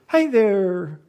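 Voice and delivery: high, loud greeting; drunk calling. Retold or imitated. The old man calls out to the baby again, loud and high. Every call was echoed.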